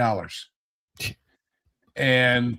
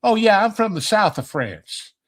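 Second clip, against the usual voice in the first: put-on Southern accent; 6 semitones higher than usual. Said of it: "she had this thick Southern accent".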